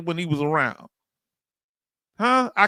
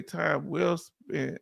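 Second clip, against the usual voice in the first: slow read-out; 4 semitones lower, 9 dB quieter, much slower than usual. Acted. Reading a viewer comment aloud.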